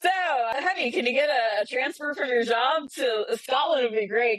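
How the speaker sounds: acted-out pleading with a spouse; eager coaxing. Acting out wheedling plea to partner.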